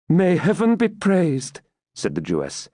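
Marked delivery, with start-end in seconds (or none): 0.1-1.6 tag. Acted. Rebecca welcomes news of death.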